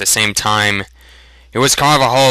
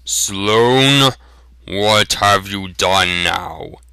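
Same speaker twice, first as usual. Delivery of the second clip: rumbling smith; slower than usual. Acted. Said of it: "in a rumbling voice".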